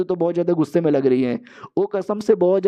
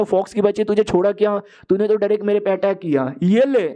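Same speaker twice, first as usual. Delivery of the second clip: raised-pitch retold outburst at an attacker; mild mock yell; 4 semitones higher than usual. Man rounding on the fox who attacked him, mild mock yell. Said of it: "चिल्लाने लग जाता".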